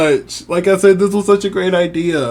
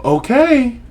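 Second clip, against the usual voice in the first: excited; 5 semitones higher, 3 dB quieter, much slower than usual. Retold or imitated. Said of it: "I was like".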